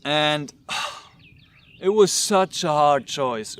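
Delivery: slow, heavy sigh before the words. Real, not acted. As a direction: let the weight of the choice slow you down.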